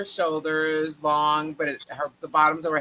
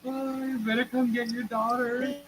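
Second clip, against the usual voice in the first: stern warning retold; 8 semitones higher, 4 dB quieter than usual. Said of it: "mother calls the aunt".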